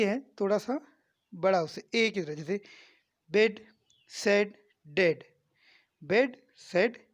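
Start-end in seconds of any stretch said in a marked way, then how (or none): 4.1-7.1 slow, stretched 'सेड' and 'बेड' with a longer ए; teacher lengthening 'डेड' for the class; drawn-out vowel demo. Shown as a demonstration. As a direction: stretch the vowel in 'बेड, सेड, डेड'. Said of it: "ये उससे थोड़ी सी बड़ी आवाज़ निकलेगी".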